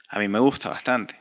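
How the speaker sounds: a little whispered confession; whispered aside. Real, not acted. Vlogger admitting to viewers he likes Narcos, whispered. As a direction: confide it in a whisper, like a secret to the viewer.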